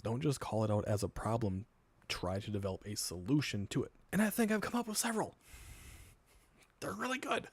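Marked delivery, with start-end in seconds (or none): 4.1-7.5 smug bragging. Pretend. Mock bragging about own ideas.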